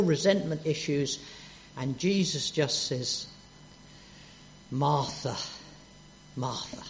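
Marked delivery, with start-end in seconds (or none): 4.7-6.8 soft, fading to near hush on the second name; calm her down with her name; loving call. Retold or imitated. Jesus calming frantic Martha, soft and loving. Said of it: "Isn't that lovely?".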